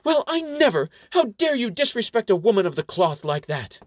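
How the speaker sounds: high, loud feigned indignation; hammed-up offended nun, voice shooting up; mock outrage. A narrator's reading. Fake nun scolds the dwarf clerk, mock outrage. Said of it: "storms off in all the mock outrage she can muster".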